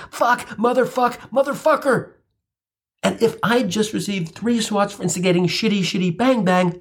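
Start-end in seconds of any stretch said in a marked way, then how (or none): 0.1-2.1 screamed expletives. Retold or imitated. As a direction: let the curses rip up high. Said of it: "let loose with the appropriate ... expletives".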